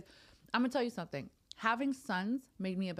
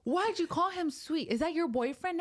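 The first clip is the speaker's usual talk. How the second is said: high, loud mock kid voice; teasing kids; 11 semitones higher, 5 dB louder than usual. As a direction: tease Mom like a nosy little son. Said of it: "he was like".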